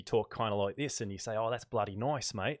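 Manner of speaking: mock-Australian, "nice" turned to "noice"; heavy Australian accent. Shown as a demonstration. Streamer showing viewers how Aussies would say it, heavy Australian accent. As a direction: put on a broad Aussie accent. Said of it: "with a heavy Australian accent".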